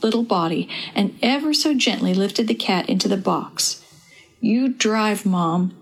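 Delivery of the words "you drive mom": words pushed through gritted teeth; through clenched teeth. Acted. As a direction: jaw locked tight, tense. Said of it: "through clenched teeth".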